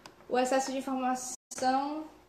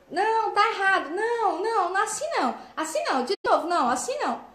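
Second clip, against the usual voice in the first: much higher, insistent repeated no's; nagging correction; 7 semitones higher than usual. Retold or imitated. Parent constantly correcting a child, impatient and much higher. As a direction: scold over and over, impatient. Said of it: "Você ficar corrigindo".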